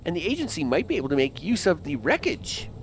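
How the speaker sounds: a hint of a stern official agent; understated government agent reading his lines; lightly voiced agent. Reads the agent's game lines.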